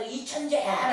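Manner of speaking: mild mock yell, drawn-out ending; retold yell. Boy calls to the mountain as mother told him, mock yell. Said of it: "라고 소리를 쳐댔어요".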